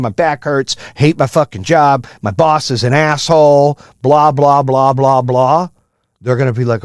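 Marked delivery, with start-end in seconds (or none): 0.0-5.7 mock complaining. Imitating a worker home griping about his job, mock whine. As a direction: sneer through the nine-to-five moaning. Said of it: "come home bitching and complaining".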